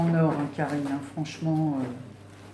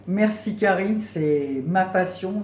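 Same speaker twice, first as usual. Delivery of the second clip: delighted thanks; 3 semitones higher, 6 dB louder, slower than usual. Real, not acted. Thanking friend for chocolate.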